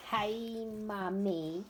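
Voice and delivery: high sweet voice to a pet; talking to dog. Real, not acted. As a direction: coo at the dog. Greeting her dog.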